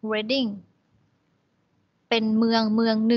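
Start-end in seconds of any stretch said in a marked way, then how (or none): 0.1-0.5 Reading repeated as RED-ing, short e; town name Reading. Shown as a demonstration. Teacher repeats the town name for students, RED-ing. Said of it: "อ่านว่า".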